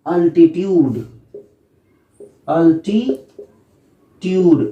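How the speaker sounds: अल्टीट्यूड drawn out very slowly; slow pronunciation. Shown as a demonstration. Teacher modelling altitude slowly for students. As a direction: stretch अल्टीट्यूड syllable by syllable. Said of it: "अल्टीट्यूड भी बोल देते हैं".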